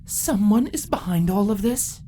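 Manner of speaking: urgent breathy whisper. Acted. Council member warning of a hidden enemy, in a whisper. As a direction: share a dark secret. Secretive voiced line, whisper.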